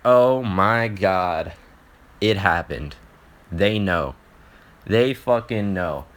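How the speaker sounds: slow, drawn-out realization of being caught; sinking dread. Retold or imitated. Son realizing his parents heard everything, sinking dread. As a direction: let each short phrase drop heavily with dread. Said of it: "My heart sinks".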